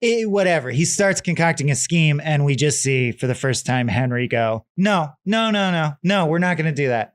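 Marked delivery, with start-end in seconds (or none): 4.8-7.1 higher-pitched string of refusals; mock protest. Son refusing his father's scheme, acted protest. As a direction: push back quickly, starting high and settling.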